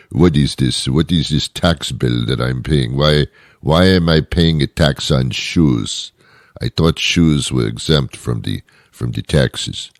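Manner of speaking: put-on comic French-accented complaint; upset French accent. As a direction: play an upset French customer querying a bill. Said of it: "French people do that too".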